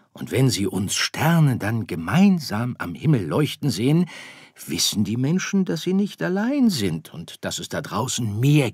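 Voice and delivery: väterlich erklärend, etwas höher und lauter; geduldiger Sternenvater. Acted. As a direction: der Vater erklärt seinem Sohn die Welt der Sterne. Vater erklärt Weihnachten. (leicht gespielter Vater, erklärend)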